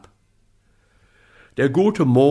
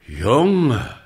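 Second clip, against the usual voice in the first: moon's voice; 4 dB louder than usual. Acted. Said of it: "sagte er".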